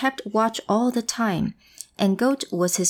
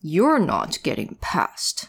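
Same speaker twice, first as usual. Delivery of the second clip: grunting troll; 4 semitones lower, slower than usual. Acted. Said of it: "he grunted".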